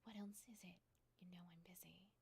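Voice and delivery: soft, breathy impatience, dropping away; weary boss, voice sinking to a near-whisper; mild impatience. Acted. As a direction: quietly brush off an interruption. Busy boss questions lingering employee.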